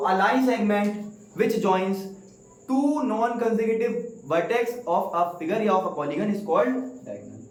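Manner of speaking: very slow, spaced words; slow dictation. Shown as a demonstration. Teacher giving the class the definition, very slowly. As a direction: spell it out for the notebook. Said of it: "teacher dictating the definition".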